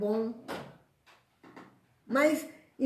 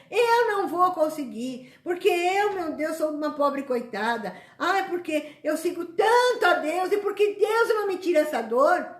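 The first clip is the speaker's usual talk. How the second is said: hammed-up complaint, higher and louder; self-pitying lament; 4 semitones higher, 3 dB louder than usual. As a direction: wail like a hard-done-by victim pleading with God. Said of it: "eu fico pondo na minha cabeça". (lamento exagerado de coitada)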